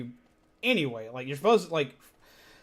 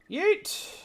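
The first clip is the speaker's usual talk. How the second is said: a sharp, much higher cry of "Yeet!"; yeet shout. Real, not acted. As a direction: fling the word out with the throw. Throwing something in game.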